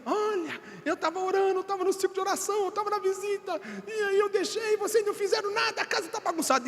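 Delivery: high-pitched complaining wife voice; imitating his wife. Pastor mocking his wife's complaint, high and whiny. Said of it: "ela chega e fala assim".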